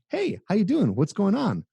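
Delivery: high, bubbly mock buddy greeting; clownish friend. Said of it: "Like you're a clown".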